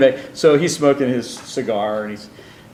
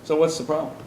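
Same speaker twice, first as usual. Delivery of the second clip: put-on Italian accent; 4 semitones higher, faster than usual. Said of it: "in this Italian accent".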